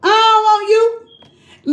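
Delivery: a blunt brush-off, slow and drawn out; lightly voiced man dumping her; mock rejection. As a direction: voice him cold and dismissive. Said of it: "And he say".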